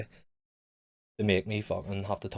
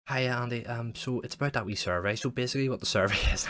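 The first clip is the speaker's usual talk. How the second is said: chirpy caller; 5 semitones higher, 4 dB louder than usual. Retold or imitated. Caller ringing next day.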